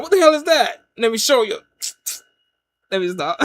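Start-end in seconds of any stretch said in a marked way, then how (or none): 0.0-1.6 high, loud indignant outburst, acted; Caesar figure. Ancient swordsman reacting to the twenty twenties, high loud outburst. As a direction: play the ancient man suddenly riled. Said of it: "He'd be like".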